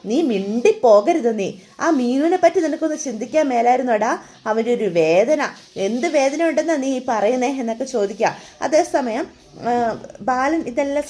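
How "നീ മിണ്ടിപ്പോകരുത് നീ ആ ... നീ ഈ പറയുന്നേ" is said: angry mother. Acted. Mother silences son angrily.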